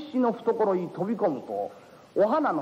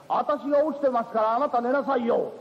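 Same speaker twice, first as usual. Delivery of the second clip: raised, firmer insistence on 私が; 2 semitones higher than usual. Acted. Insisting louder after repeat.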